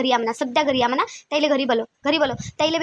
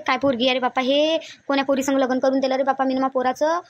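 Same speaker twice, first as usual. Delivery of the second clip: mock shocked aunt; slower than usual.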